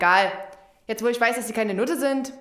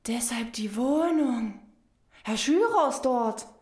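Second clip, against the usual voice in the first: geflüstert. Acted. Begreift leise.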